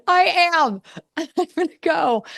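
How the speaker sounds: high, heated retold outburst; mock-indignant exit line; defiant comeback. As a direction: throw it back defiantly, pitch jumping way up.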